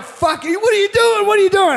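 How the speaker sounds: high, loud panicked protest; frantic, high-pitched mock yell; retold freak-out. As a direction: imitate a kid yelling in alarm as he's grabbed. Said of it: "he was freaking out".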